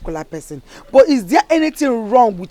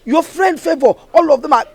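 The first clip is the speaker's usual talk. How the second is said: louder, insistent mother's reproach; stern scolding; 3 semitones higher, 5 dB louder than usual. Acted. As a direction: scold her daughter, voice raised.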